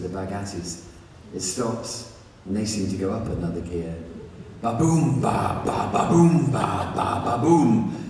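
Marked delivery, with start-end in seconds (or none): 4.6-7.9 loud ba-boom beats with ba ba fills; rhythmic thumping noise. Retold or imitated. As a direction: pound out the rhythm. Imitating neighbours faster.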